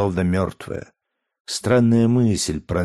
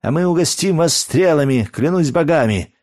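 much higher, louder yell of defiance; loud shouted threat; 8 semitones higher, 4 dB louder than usual. A narrator's reading. Guard yells his threat back at the crowd outside, high and loud. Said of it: "отвечал первый голос".

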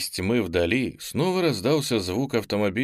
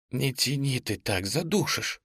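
indignant; 3 semitones higher, 4 dB quieter than usual. Acted. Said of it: "возмутилась Настя".

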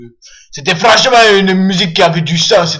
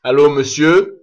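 deep tough-guy voice; 5 semitones lower, 3 dB louder than usual. Pretend. Prank call in deep voice.

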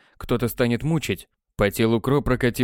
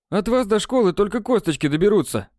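ominous promise; 9 semitones higher than usual. A narrator's reading. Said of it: "пообещал Нададух".

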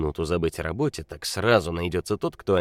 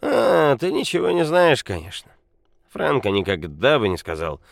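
put-on loud angry drunk; 6 semitones higher, 7 dB louder than usual. A narrator's reading. Drunk Nikola rages.

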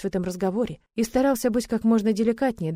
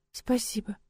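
soft, barely audible thanks; 2 semitones higher, 5 dB quieter, slower than usual. A narrator's reading. Shy bride to husband, barely audible. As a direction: breathe the thanks out almost unheard. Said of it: "отзывается она едва слышно".

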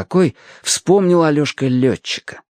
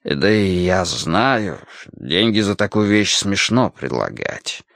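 put-on hesitant old sailor; 2 semitones lower than usual. Sailor offers Alyoshka a trade for the ship, hesitant. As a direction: make the offer awkwardly, voice dropping off.

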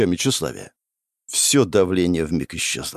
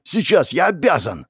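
raised, determined exclamation; urgent resolve; 6 semitones higher than usual. Acted. Hero running to save the village, urgent. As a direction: spur yourself on urgently.

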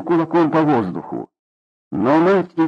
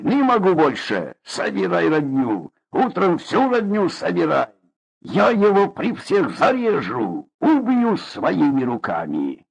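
furious threat; 6 semitones higher than usual. Acted. Father threatens son.

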